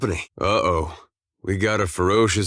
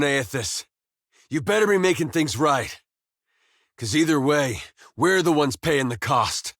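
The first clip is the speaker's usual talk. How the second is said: urgent, higher-pitched remonstrance; impassioned protest; 5 semitones higher than usual. Acted. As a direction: warn a god against more destruction, voice pitched high. Pleading angrily with a god.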